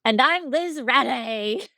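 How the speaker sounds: drawn-out, hammed-up pirate sign-on; playful pirate. Co-host joins the host's pirate intro, playful pirate. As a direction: stretch the name out in mock pirate style.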